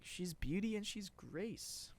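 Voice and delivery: high, slow mimicked line; imitated girl. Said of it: "then the girl's like".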